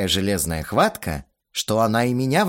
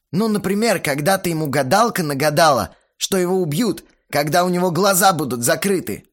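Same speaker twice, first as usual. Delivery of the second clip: put-on higher, louder keen young man; eager storyteller voice; 7 semitones higher, 3 dB louder than usual. A narrator's reading. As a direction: spin a backstory excitedly. Belfigor's lines voiced.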